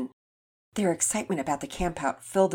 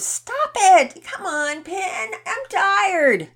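put-on high, loud sleepy-kid complaint; high-pitched boy's aggrieved yell; whining protest; 14 semitones higher, 8 dB louder, much slower than usual. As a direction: whine at your sister to leave you alone. Boys protest being shaken awake.

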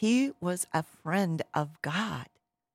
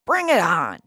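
Goliath, irate; 9 dB louder than usual. Acted. Irate giant daring the boy to fight, loud mock roar. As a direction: bellow a furious challenge. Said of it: "He's irate".

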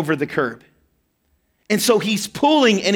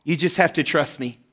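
soft, tender father; 3 semitones lower, 3 dB quieter than usual. Retold or imitated. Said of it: "he says".

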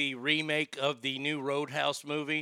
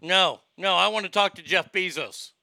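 loud insistence; 3 semitones higher, 6 dB louder than usual. Real, not acted. Frustrated caller insists louder.

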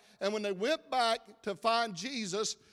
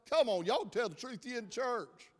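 usual speaking voice

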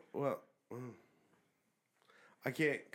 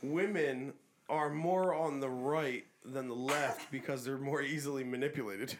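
mocking paraphrase; slower than usual. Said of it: "a vaguely sexist statement of".

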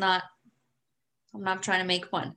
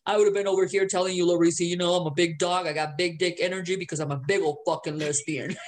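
deeper voice; 4 semitones lower, faster than usual. Pretend. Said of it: "I should have yours".

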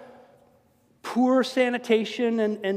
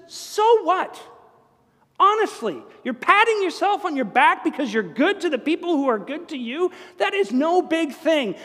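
higher, louder, rebuking; emphatic challenge; 8 semitones higher, 5 dB louder than usual. Retold or imitated. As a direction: scold them with a raised voice. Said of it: "And Jesus says".

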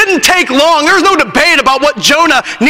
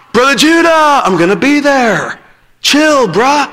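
mock teen voice. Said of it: "he'd say".

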